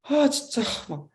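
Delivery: mock whiny grumble to God; grumbling complaint. New recruit blaming God on the uphill climb, mock grumbling. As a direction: complain like a let-down recruit, lightly acted. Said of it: "막 이렇게 막 투정 부리면서".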